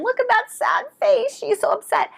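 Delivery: high sing-song pity voice; mock pity. Teacher mocking adults cooing at a crying child, high and syrupy. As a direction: coo over the crying girl in a high voice.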